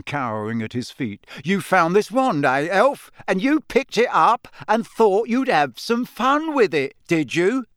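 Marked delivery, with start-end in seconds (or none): 1.4-7.7 stern official. Acted. Diggory accusing the elf.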